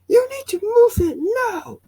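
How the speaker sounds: put-on high, slow, loud old-man shout; cranky neighbor yelling about his car; Kevin voice. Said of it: "my Kevin voice".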